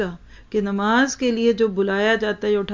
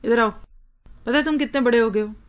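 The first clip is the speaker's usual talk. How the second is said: scolding taunt; faster than usual. Retold or imitated. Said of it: "हम अमूमन क्या बुलाते हैं?".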